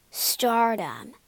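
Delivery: mild acted sigh; a touch of wistful yearning. A narrator's reading. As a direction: sigh the word out longingly. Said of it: "sighed Sir Sidney".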